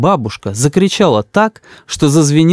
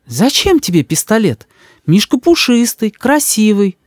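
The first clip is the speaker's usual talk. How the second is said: высокий, ласковый голос матери; мама заступается за сына; 9 semitones higher than usual. A narrator's reading. Мама уговаривает. (голос мамы, выше)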